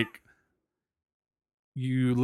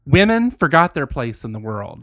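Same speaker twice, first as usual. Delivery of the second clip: country voice. Acted. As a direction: read it as a fed-up country ranter. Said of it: "I'm gonna say this in my country voice".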